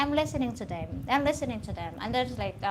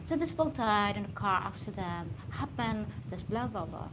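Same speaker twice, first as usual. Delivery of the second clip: lightly imitated British newsreader; mock BBC British accent reading grim news; BBC reporter accent. Speaker as BBC reporter announcing a tragedy, British accent. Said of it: "You know, like that".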